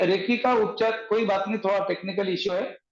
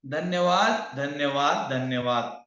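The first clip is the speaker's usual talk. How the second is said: reciting a healing mantra; 5 semitones lower, slower than usual. Shown as a demonstration. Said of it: "तीन बार".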